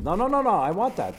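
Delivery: high, urgent repeated no; alarmed insistence. Retold or imitated. Gentile insisting on keeping mezuzah.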